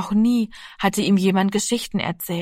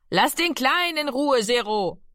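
called out; 6 semitones higher than usual. A narrator's reading. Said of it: "rief Mami".

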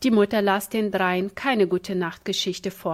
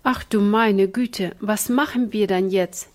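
wailing; 3 dB louder than usual. Acted. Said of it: "jammerte Ina".

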